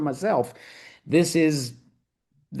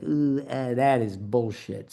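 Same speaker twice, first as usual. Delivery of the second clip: slinky mock voice; 2 semitones lower than usual. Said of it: "That is a slinky way".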